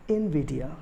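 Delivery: Nvidia repeated as "in-VID-ia"; correct pronunciation. Shown as a demonstration. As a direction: demonstrate Nvidia with a short "in" at the start. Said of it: "correct pronunciation would be".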